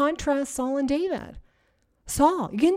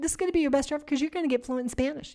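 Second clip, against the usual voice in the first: excited pep talk; 4 semitones higher, much faster than usual. Shown as a demonstration. Hyping her own commitments.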